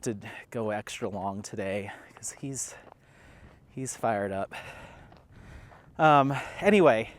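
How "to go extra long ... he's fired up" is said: whisper. Real, not acted. Aside while handling the dog.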